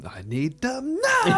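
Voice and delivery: high, slow whiny demand; mock petulant demand. Co-host mocks Jeremy demanding papers, high slow whine. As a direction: whine it like a spoiled brat.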